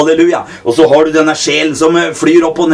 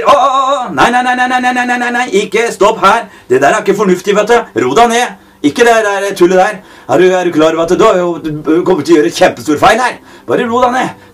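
whiny voice of the flesh; 4 semitones higher than usual. Acted. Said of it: "sier kjøttet".

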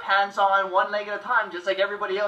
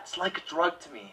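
quiet pained murmur, softer; more pained, quiet; 3 semitones lower, 6 dB quieter than usual. Shown as a demonstration. Edward impression, more pain than that. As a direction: hold in the pain as you speak. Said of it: "More pain than that".

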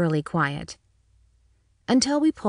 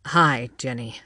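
lower, shy police chief greeting; lightly voiced shy chief, lower; 6 semitones lower than usual. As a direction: say hi bashfully, a little embarrassed. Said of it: "he said shyly".

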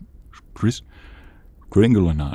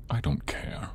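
Kris Kringle voice; 7 dB quieter than usual. Acted. Kris Kringle answers Krampus's call.

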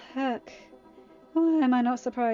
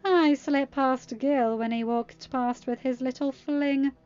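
higher, louder mocking boast; smug sneer; 3 semitones higher, 7 dB louder than usual. A narrator's reading. Captive mocking the guard he slipped past, smug. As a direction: brag and sneer with relish. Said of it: "Freddy smirked".

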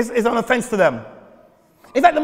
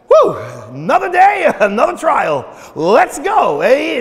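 loud, cheerful rally; upbeat pep talk; 5 dB louder, slower than usual. Retold or imitated. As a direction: pump everyone up for the day. God greeting the day.

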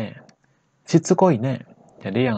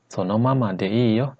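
slow; slower than usual. Shown as a demonstration. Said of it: "Terus kalau kita percepat".

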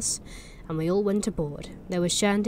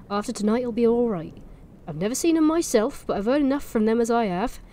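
put-on Norfolk accent; 2 semitones higher, 3 dB louder than usual. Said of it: "push the accent".

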